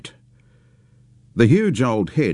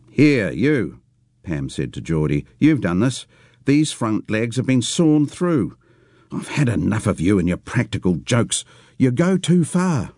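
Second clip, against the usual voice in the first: scolding; 4 semitones higher than usual. Acted. Pam scolding Geordie.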